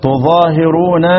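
تظاهرون recited slowly with care; qira'at reading. Shown as a demonstration. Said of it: "ادي الاربع قراءات". (تلاوة تظاهرون ببطء)

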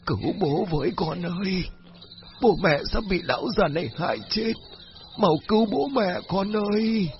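high, pleading ghostly father; crying for help. Acted. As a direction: wail for rescue like a possessed father. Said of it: "kêu cứu".

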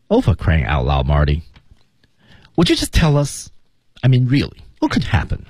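demonstrated impatience, lifting into curious questions; impatient and curious. Shown as a demonstration. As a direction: act mildly fed up, itching to be told. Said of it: "不耐烦，加好奇".

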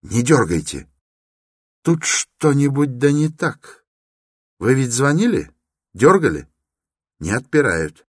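high, urgent warning; young man's voice. Acted. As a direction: stop him, worried. Young man urges caution.

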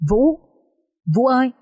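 high-pitched, urgent call for a brother; restrained narrated yell, high in pitch; crying out. A narrator's reading. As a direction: cry out his name, pitched well up. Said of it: "Vượng hét lên".

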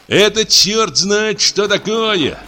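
sudden outcry. A narrator's reading. Patient bursting out against the guard, shouting. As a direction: burst out in outrage. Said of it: "вскрикнул вдруг Иван Дмитриевич".

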